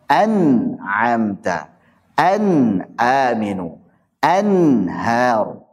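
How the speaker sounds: An'amta, an-aminu, anhar with the nun said clearly and slowly; clear izhar. Shown as a demonstration. Teacher demonstrating izhar to students, slow and clear. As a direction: pronounce the nun in an'amta distinctly, drawn out. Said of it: "Jadi paling enak emang jelas".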